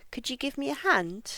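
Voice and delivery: "Could you" run into "couldja", "a" just "uh"; linked weak forms. Shown as a demonstration. Teacher reads for listening, "a" weakened to "uh". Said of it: "listen for how I say this".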